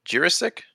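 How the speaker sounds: Jiricek said as CHEER-uh-sick, high and questioning; unsure pronunciation. Real, not acted. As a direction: guess at Jiricek with "ch" first, "sick" last. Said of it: "I'm gonna butcher this".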